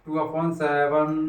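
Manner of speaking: very slow, word by word, टू upon seven spaced out; slow dictation. Shown as a demonstration. Teacher dictating टू upon seven slowly to students. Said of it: "कितना आएगा?".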